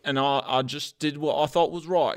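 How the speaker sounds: a hint of a surly cook; lightly voiced Liam. Cook Liam defending himself to the hosts, mildly indignant. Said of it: "I'm Liam".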